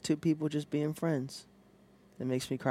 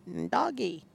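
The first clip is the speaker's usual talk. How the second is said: cooing at a dog; 10 semitones higher than usual. Retold or imitated. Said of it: "That type of thing".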